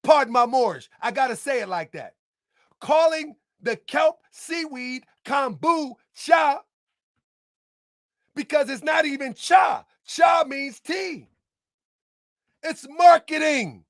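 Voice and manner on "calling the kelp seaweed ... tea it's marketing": heated rant. Real, not acted. Ranting explanation, raised voice.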